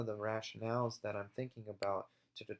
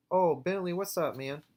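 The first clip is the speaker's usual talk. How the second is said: excited dog greeting; 7 semitones higher, 7 dB louder than usual. Real, not acted. Greeting his dog mid-video.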